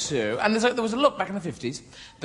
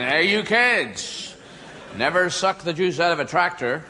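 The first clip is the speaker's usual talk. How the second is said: lightly voiced slow yokel; a hint of an old country yokel; slower than usual. Yokel warning the kids off tractors, lightly voiced country drawl. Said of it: "the country kind of yokel character".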